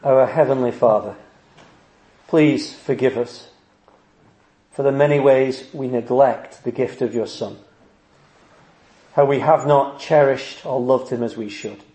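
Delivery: measured, subdued prayer voice. Real, not acted. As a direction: address God solemnly, pausing between phrases. Leads a prayer.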